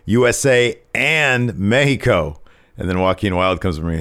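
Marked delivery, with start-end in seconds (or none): 0.0-2.4 raised voice, claiming a crown; mock-imperious wrestler; Santos. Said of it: "He says".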